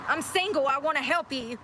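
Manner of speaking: high hammed-up needy guy; mocking a commenter. Streamer reading a caps-lock comment aloud, mock voice. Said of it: "Is he typing in caps?".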